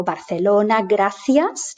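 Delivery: C in Barcelona and gracias as TH; Spain's TH. Shown as a demonstration. Teacher reminding learners of TH in Barcelona, gracias. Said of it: "to get this sound".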